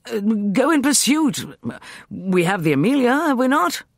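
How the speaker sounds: high, loud urging; roused. A narrator's reading. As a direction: press them to act at once. Walter roused, eyes glittering.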